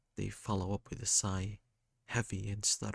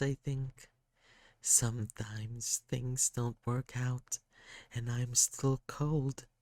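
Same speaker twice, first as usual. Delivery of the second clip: put-on lightly higher, sorrowful child voice; a hurt kid apologising, voice lifted; sad kid; 3 semitones higher than usual. Sad kid character speaking.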